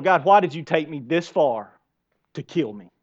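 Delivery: low-key mock complaint to God; grumbling prayer. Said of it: "what a grumbling prayer's like".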